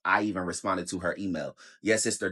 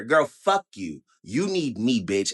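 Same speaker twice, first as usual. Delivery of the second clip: angry slow; slower than usual. Real, not acted. Ranting at recruiter.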